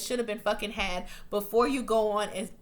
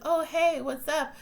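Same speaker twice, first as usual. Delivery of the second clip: high, overly casual mock greeting; faking casual; 7 semitones higher, slower than usual. Caught couple greeting Alice as she walks in, faking casual. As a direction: imitate someone caught out playing it cool. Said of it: "try to act like it's all cool".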